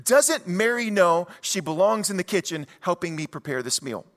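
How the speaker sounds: anxious, pitch up, rushed at first; mock panic of a worried hostess; freaking out. Martha panicking about gossip, quoted in mild mock alarm. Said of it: "Martha's freaking out".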